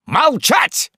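very high, loud bellow; window-rattling shout. A narrator's reading. The ordinaire silencing the officer with a window-rattling bellow. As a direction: roar it to shake the windows. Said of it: "голосом, от которого дрогнули оконные стёкла".

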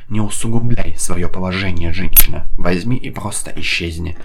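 booming furious dark lord roar. A narrator's reading. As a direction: roar it like a demon master. Chief roars at Alevtina.

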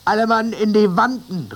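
high and loud; called order. A narrator's reading. First mate calling the crew into the rigging, high loud call. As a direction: send all hands aloft. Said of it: "rief der Maat".

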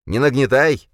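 high, loud parroting; mocking shout. A narrator's reading. Khranka mimics Yovar, high and loud. Khranka mocks back shrilly.

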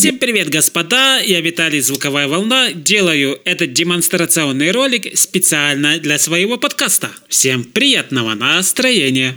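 bright, ringing EQ'd voice with boosted highs; sharp, sizzling treble-heavy sound. Shown as a demonstration. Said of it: "Вот такой у меня получился звенящий голос".

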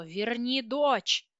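furious slow shouted demand; yelled in her face. A narrator's reading. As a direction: bellow it slowly into her face. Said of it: "заорал ей в лицо".

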